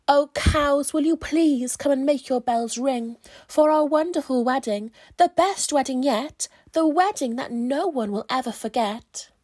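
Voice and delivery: calling out. Acted. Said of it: "calling the cows".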